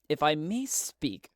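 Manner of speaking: slow whisper at gunpoint; a hushed, slow plea to armed rebels. Acted. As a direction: breathe the words out slowly and carefully. Talti speaks at gunpoint.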